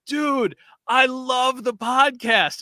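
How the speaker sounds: high, slow, eager fan gush; excited fan. Retold or imitated. The newly engaged guy recognizing the podcast host, gushing.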